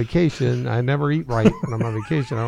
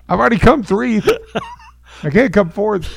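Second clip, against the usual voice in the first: high mock protest; 9 semitones higher, 6 dB louder than usual. Protesting Jesus from the toilet.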